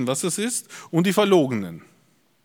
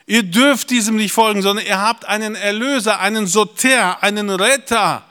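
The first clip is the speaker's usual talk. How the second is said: slow, raised preacher's voice; full-force preaching; 6 semitones higher, 4 dB louder, slower than usual. Acted. Preacher proclaims one Saviour to the congregation, full-force preaching. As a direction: proclaim it emphatically, stretching the key words.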